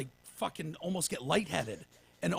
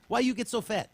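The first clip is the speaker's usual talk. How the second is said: imitating Zofia; 6 semitones higher than usual. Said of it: "Remember when she said that?".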